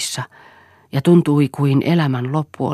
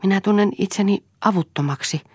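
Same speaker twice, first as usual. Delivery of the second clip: higher-pitched helpless complaint; lamenting; 8 semitones higher than usual. A narrator's reading. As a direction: plead your helplessness. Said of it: "valitti Lea".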